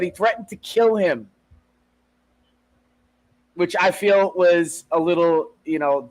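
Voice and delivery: ordinary delivery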